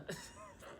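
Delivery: soft, breathy imitation chuckle; mimicked little laugh. Imitating the date as he starts laughing, mimicked little laugh. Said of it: "he starts laughing, you know, that little".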